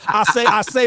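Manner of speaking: high, loud cartoon rooster "I say, I say"; blustery southern rooster call; Foghorn Leghorn. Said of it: "Foghorn Leghorn".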